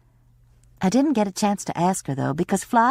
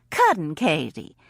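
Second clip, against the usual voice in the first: put-on Alabama accent; 2 semitones lower than usual. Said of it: "in Dick Hanna's Alabama accent".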